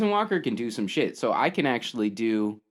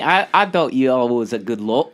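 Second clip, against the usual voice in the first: put-on character accent; 6 dB louder than usual.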